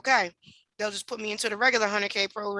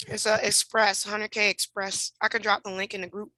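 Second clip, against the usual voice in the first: talking through a mouthful of food; words round a bite, chewing; eating while talking. Real, not acted. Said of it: "I'm eating, I'm starving".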